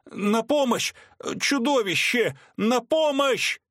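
very high, slow terrified screams; being chased. A narrator's reading. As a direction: scream for help in sheer terror. Father attacked, screaming from window.

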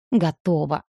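short sarcastic reply, falling at the end; grudging, sarcastic agreement. A narrator's reading. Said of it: "саркастично процедила Ника".

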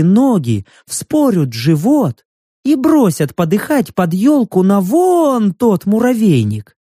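наивно-удивлённый, чуть громче; невинно пугает подругу; удивлённая девушка. Acted. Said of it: "удивлённо распахнула глаза и спросила". (лёгкое наигранное удивление)

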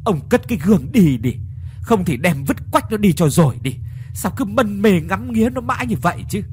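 wife scolding her husband after running up, out of breath; breathless scolding. Acted. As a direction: scold him between gasps. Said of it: "nói trong tiếng thở gấp".

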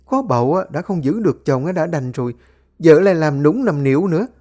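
shrill-voiced rebuke of the family squabble; scolding mother-in-law. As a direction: tear into them like a furious mother-in-law.

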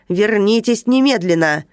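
громкий приказ, ударение на «немедленно»; крикни немедленно; воскликнул. Acted. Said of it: "воскликнул начальник". (начальник кричит нарушителю вернуться)

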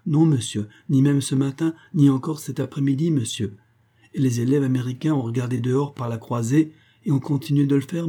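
voix de servante plus aiguë, agitée; servante affolée. Acted. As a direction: une domestique qui s'excuse vite. (la servante au docteur, affolée et plus aiguë)

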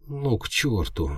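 high, slow frightened squeak; imp squeak. A narrator's reading. Imp panicking at the chaos around her, high squeak. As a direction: squeak it like a startled little imp. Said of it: "она пискнула".

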